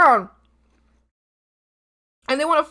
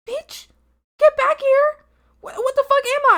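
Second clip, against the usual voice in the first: calling out; 11 semitones higher, 3 dB louder than usual. Acted. Acting out calling tall friend.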